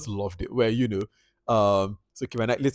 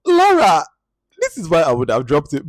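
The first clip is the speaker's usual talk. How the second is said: sympathetic sigh; 6 semitones higher, 9 dB louder than usual. Retold or imitated. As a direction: sigh at her like a knowing friend. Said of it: "I'm like".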